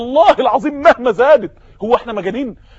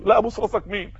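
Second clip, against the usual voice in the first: scoffing retort; 3 semitones lower, 8 dB quieter than usual. Acted. Captive scoffs at Caesar's demand.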